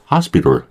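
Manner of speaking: "hospital" as HAS-bi-rl, weak ending; reduced hospital. Shown as a demonstration. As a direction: say "hospital" with flapped t and schwa. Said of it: "요 정도 되고요".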